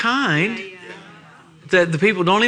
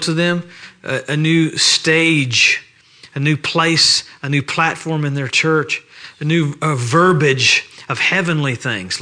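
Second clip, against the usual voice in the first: pastoral prayer; 3 semitones lower than usual. Acted. Preacher praying over the church on Sunday morning, reverent. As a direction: pray it unhurried, reverent and sincere.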